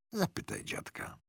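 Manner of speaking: put-on hushed whisper to the boy; mother whispers him a secret. Mother whispering to her son at the station.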